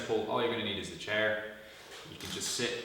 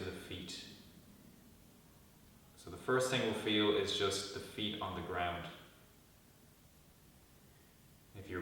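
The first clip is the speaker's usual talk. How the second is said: calm guided meditation with long pauses; guided body scan. Real, not acted. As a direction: lead them gently into stillness, pausing between instructions.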